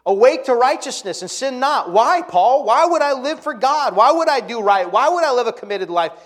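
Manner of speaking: loud, high pulpit cry; fiery preacher at full volume; preaching at full force. Acted. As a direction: shout the questions to the church.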